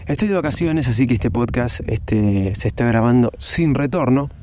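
out of breath from a run; after a workout. Real, not acted. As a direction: talk while still catching your breath. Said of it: "acabo de terminar de correr".

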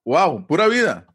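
slow, pleased "Wow, pura vida" with real surprise; delighted wow. Shown as a demonstration. Thanking a friend for a gift, slow delighted wow. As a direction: thank someone for a gift, slowly amazed. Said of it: "si me dan un regalo, digo".

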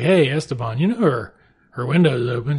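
mock calling out. Frenchman tattles to Esteban about Blanca, calling out. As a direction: call for attention with news to tell.

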